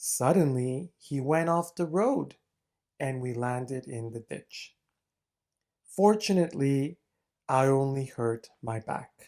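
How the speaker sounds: very slow, deliberate, drawn-out delivery. Reading a sample answer aloud so listeners can follow along, speaking very slowly. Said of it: "I'm going to be speaking very slowly".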